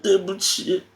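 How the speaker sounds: high, slow sobbing apology; tearful wail ending in coughs; crying. Acted. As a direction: sob it out until it breaks into coughing. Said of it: "好了，好了，别哭了，".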